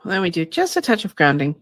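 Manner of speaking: slow, calm channeling voice; channeled spirit guide. Acted. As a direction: speak as a gentle guide spirit. Channels her guide Shay.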